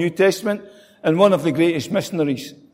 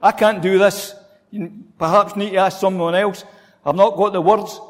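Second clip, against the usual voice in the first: protesting Moses. Retold or imitated. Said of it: "There he was protesting".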